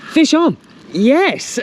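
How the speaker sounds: high, loud triumphant cries; real excitement. Real, not acted. Angler shouting as the fish takes the bait, real excitement. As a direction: call out the catch, high and loud.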